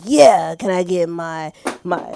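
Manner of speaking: put-on deep voice. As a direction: lightly imitate a man trying to sound deep. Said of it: "trying to have this, like, deep voice".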